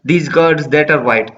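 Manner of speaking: slow, measured recitation of the verse; poem reading. Acted. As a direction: read the line slowly, savouring it. Reading poem line slowly.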